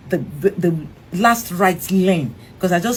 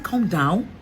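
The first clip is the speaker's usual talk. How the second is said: quieter, rising disbelieving "Come down?"; incredulous question; 2 semitones lower, 4 dB quieter than usual. Retold or imitated. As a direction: ask "Come down?" in disbelief with a rise. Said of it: "I said".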